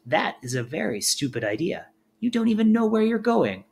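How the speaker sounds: a hint of a high scolding crow; lightly voiced crow. A narrator's reading. Crow scolding Luna's plan, lightly voiced high. Crow's meaning voiced by reader.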